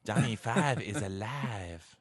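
slow stilted robot voice. Retold or imitated. Quoting the movie robot in a slow stilted voice. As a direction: spell it out like Johnny Five the robot.

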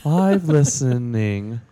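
very slow reading in character; silly, drawn-out review voice; put-on reviewer voice. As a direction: drag the words out as the reviewer. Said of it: "back to Amy".

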